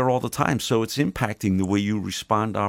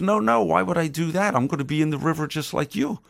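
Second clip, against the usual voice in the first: sly scorpion; 7 semitones higher than usual. Acted. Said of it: "He goes".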